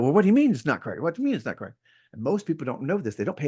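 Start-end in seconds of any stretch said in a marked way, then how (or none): 0.0-1.8 higher-pitched incredulous question; acted disbelief. Client querying the agent about the business card, acted incredulity. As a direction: question it as if taken aback.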